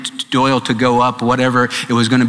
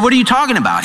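incredulous friends; 9 semitones higher, much faster than usual. Retold or imitated. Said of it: "They said".

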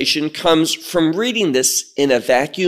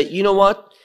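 mock opposing view; 3 semitones higher than usual. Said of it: "Some will say".

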